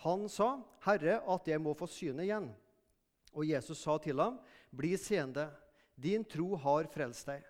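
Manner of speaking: measured Bible reading to the congregation; scripture reading. Acted. Preacher reading the Bible passage to the congregation, measured reading. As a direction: read the gospel aloud, steady and clear.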